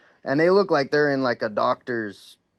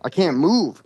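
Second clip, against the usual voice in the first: louder and higher, reliving the panic; real worked-up panic; 4 semitones higher, 4 dB louder than usual. Real, not acted. Telling a friend about the abduction night, voice rising in panic. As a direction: heat rising as the memory grips him. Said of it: "Sorry, I'm getting a little worked up".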